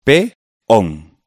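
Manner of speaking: "Pe-on" as two separate beats, pe, on; split into syllables. Shown as a demonstration. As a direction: pause between the syllables of "Pe-on". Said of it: "Separémoslas en sílabas".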